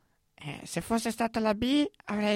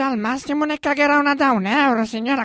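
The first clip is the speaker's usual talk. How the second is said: higher, louder mock advice; deadpan punchline; 3 semitones higher, 5 dB louder than usual. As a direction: deliver the joke loud and pointed. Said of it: "E io ho detto".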